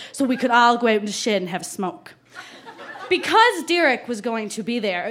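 put-on light Newfie accent reading a diary; Newfoundland accent. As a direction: lean lightly into a Newfoundland small-town accent. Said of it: "I really have to put on the accent".

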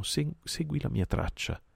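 a thin high cry as he is flung away; shrieked. Acted. Mowgli, thrown through the air, shrieks high to Kill. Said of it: "Le ultime parole le strillò".

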